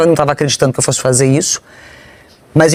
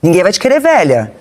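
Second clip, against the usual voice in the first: mock nagging criticism; cobrança imitada; 2 semitones higher than usual. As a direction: imitate a partner's scolding put-downs. Voices partner's nagging criticism. (crítica imitada, em tom de cobrança)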